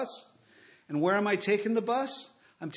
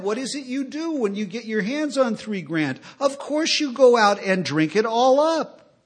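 emphatic retelling; 5 semitones higher, 9 dB louder than usual. Retold or imitated. Sponsor's advice retold to the crowd, loud and emphatic. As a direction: lean into the punchline, loud. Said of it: "that actually said".

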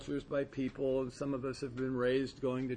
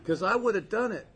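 laughing; 8 semitones higher, 7 dB louder than usual. Real, not acted. Laughing admission.

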